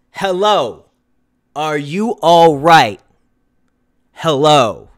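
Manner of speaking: low, slow dramatic reading; a touch of movie drama; dramatic Dave line. Acted. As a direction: deliver it like a tense horror scene. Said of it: "Get ready for this".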